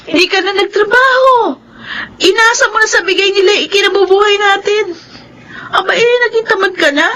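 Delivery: hurt, near-crying complaint; tearful scolding. Acted. Wife tearfully scolding her idle husband.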